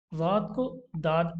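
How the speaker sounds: वाद slow, दाद contrast; zwad not daad. Shown as a demonstration. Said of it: "दाद नहीं पढ़ेंगे".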